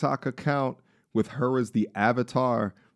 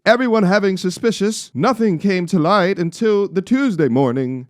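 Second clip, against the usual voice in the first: put-on Scottish accent; 8 semitones higher, 6 dB louder than usual. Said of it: "I'm trying to read in a Scottish accent".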